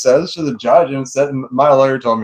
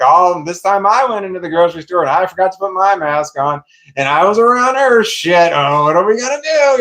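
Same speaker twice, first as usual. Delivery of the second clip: mock panic; 6 semitones higher than usual. Fake worried excuse to ex-wife.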